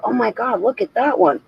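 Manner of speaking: hint of an old lady clutching her pearls; mock shocked grandma. Grandma gawking at photos of friends.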